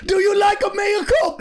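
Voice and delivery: very high, hammed-up Italian waiter; squealed fake Italian accent; mock Italian accent. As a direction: shout it in a silly Italian accent. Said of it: "What are you, Italian now?".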